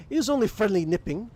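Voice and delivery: a proud wolf warrior, amused; gruff warrior chuckling. Acted. Game master to players as Thorvald, jovial warrior voice.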